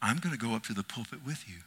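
quiet, intimate voice of God; a hushed Lord speaking to the pastor. Retold or imitated. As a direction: speak softly as the Lord reassuring. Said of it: "It's like he said".

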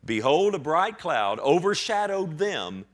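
loud, high, drawn-out declamation; grand proclamation. Retold or imitated. Preacher repeats the cloud verse to congregation, grand proclamation. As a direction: herald it slowly to the whole room.

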